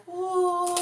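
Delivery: high, blissful ooh; delighted ooh. Retold or imitated. Waking in a hotel room, high delighted ooh. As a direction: savour waking up happy. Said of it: "and you're like".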